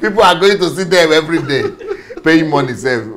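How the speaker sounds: real laughter through the words; laughing. Real, not acted. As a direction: laugh at how absurd it is. Laughs at museum visitors.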